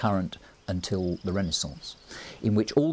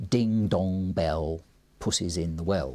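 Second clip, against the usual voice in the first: heavy, drawn-out beats of a nursery rhyme; slower than usual. Shown as a demonstration. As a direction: chant it slowly, landing on each stressed word. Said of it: "like nursery rhymes".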